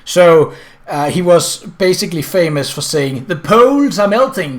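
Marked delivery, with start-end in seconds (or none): 3.3-4.6 mild imitation of a thick Danish accent; lightly mock a Danish minister's heavy Danish accent; Willy Søvndal's Danish accent. Danish climate minister quoted on melting poles, a light imitation of his thick Danish accent. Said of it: "with a very, very strong accent".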